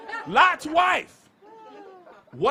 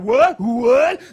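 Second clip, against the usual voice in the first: louder clipped double gasp of disbelief; mock shocked Christians; 2 semitones lower, 9 dB louder than usual. Christians reacting to Old Testament claim, mock shock. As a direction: act scandalized at the idea. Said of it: "we be like".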